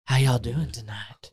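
lightly voiced slow creepy greeting; a hint of a slow, creepy old inmate; creepy Hannibal Lecter. Inmate greets visitors from the dark, slow lightly creepy. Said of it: "creepy Hannibal Lecter clip voice".

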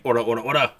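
loud chanted punching cry; battle cry. Acted. Maruo gets up and starts punching Dopa, battle cry.

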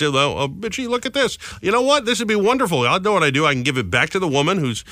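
gleeful beachcomber; excited finder voice. Retold or imitated.

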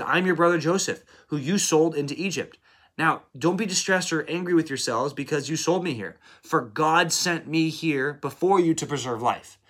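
a hint of Joseph pleading with his brothers; Joseph revealing himself. Preacher voices Joseph revealing himself.

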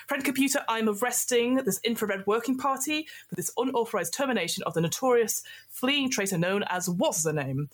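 stern arrest declaration. Acted. Arresting party before computer.

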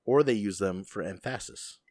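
"emphasis" said em-FASS-is; joke mispronunciation. Pretend. Jokes to co-host about big words, "emphasis" said em-FASS-is. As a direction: stress the middle syllable of "emphasis", em-FASS-is. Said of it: "on the wrong syllable".

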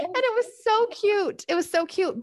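high giggly gush through laughter; delighted laughing aside; laughing fondly. Real, not acted. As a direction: laugh while you say it, charmed. Gushing about daughter's cute answer.

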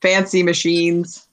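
put-on Minnesota accent, lightly folksy; Fargo accent. Furbolg explains magic to the party, Fargo accent. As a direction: play it full Fargo, Minnesotan. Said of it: "I'm going full Fargo over here".

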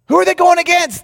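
rhetorical question. Real, not acted.

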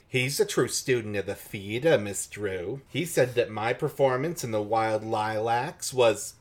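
lightly voiced theatrical actress; a hint of an affected stage performer; lightly put-on character voice for an actress; Miss Bunny Reynolds. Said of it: "this is the voice I imagine for Miss Bunny Reynolds".

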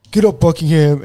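mock coach yell, moderately loud; imitating coach's order. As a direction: call out like a coach ordering a player up. Coach ordering collapsed player up.

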